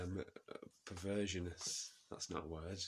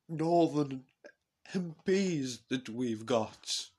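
Jacob Rees-Mogg; 2 semitones higher, 4 dB louder than usual. Acted. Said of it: "He says".

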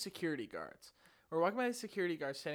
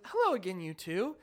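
creepily friendly guard; 3 dB louder than usual. Retold or imitated. Repeating smiling guard's greeting, creepily friendly. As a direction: lilt it brightly, a bit too friendly. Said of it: "With that exact voice and this big smile".

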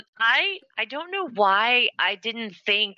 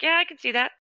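knowing, higher agreement; 8 semitones higher, faster than usual. Retold or imitated. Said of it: "I'd be like".

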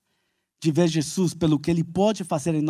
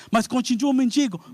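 doubting complaint; 7 semitones higher than usual. Retold or imitated. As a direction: push back in doubt.

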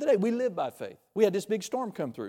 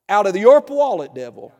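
rebuking shout; 3 semitones higher, 12 dB louder than usual. Acted. Preacher rebuking the devil.

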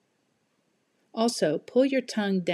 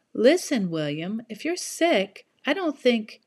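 worried mother; 4 semitones higher, 4 dB louder than usual. Acted. Mrs Kim voiced.

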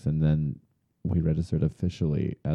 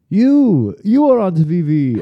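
much higher and louder, shrieking "You, you are on T V"; excited shriek; 13 semitones higher, 10 dB louder, slower than usual. Retold or imitated. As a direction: point and scream with delight at a friend. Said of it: "she went".

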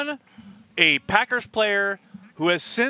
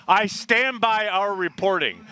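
slow, solemn statement; deadpan official pronouncement; mock serious; 3 semitones higher, slower than usual. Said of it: "I said".

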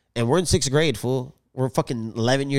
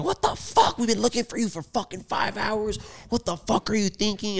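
imitating angry family; 9 semitones higher than usual. Family scolds kid who went missing.

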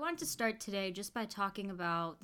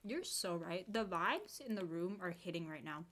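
talking while eating; mouth full; 4 dB quieter than usual. Real, not acted. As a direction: speak around a bite of food. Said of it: "Sorry, I'm eating".

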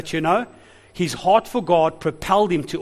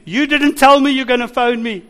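irritated retort; 4 semitones higher than usual. Retold or imitated. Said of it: "I was getting a bit irritated".

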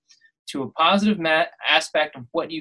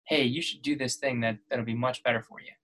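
soft, low voice from inside the head; inner voice; 6 semitones lower, 11 dB quieter, faster than usual. Retold or imitated. The voice in your head urging you, soft and low. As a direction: gently nudge like a quiet inner voice. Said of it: "that voice inside your head that's like".

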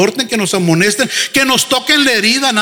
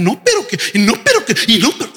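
mocking rebellious whine; faster than usual. Pastor mocks a rebellious member, whining. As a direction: mimic a congregant arguing with the pastor. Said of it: "ese espíritu de rebeldía".

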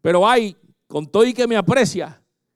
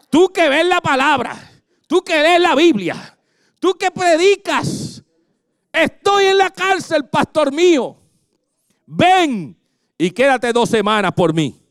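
high, slow begging voice of a friend in jail; pleading jailed friend; 7 semitones higher, slower than usual. Retold or imitated. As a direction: beg the pastor from a jail call. (amigo suplicando desde la cárcel, voz aguda)

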